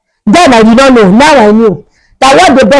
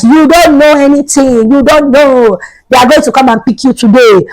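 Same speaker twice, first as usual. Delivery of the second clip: teasing; 3 semitones higher than usual. Retold or imitated. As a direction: imitate friends rubbing it in. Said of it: "that's how they were already teasing".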